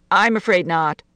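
firm, understated refusal; flat. A narrator's reading. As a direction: turn it down flatly. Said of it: "Missus Harris said flatly".

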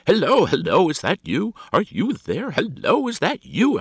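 loud, high hailing down the phone; irate telephone hello; fuming. A narrator's reading. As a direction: impatiently demand who is on the line. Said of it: "in a great fume with her".

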